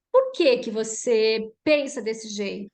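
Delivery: slow, measured curious question; demonstrated understanding tone; open, non-confrontational question. Shown as a demonstration. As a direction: draw the question out so it invites an answer. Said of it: "mas o tom de voz".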